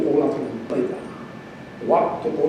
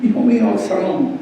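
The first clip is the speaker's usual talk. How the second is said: loud, raised lament for a son; crying out; 4 semitones higher, 5 dB louder than usual. Acted. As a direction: act out a king's anguished call. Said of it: "Iba gritando".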